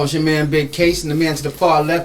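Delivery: big radio host intro; booming announcer. Acted. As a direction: hype it up like a radio DJ. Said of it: "You sound like a radio".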